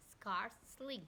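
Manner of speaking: SCARCELY in two parts, scarce, then ly; split in two parts. Shown as a demonstration. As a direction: say "scarcely" as two separate syllables. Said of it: "they have divided it in the two parts".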